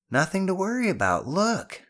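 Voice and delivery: calling down reassurance. Acted. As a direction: call out that it's fine. Boy calls reassurance to nervous friend.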